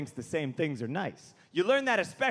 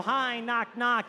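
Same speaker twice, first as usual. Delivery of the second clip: higher, mock timid greeting; self-effacing hello at the door; meek entrance; 4 semitones higher, slower than usual. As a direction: announce yourself apologetically, pitched up. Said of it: "I lower myself".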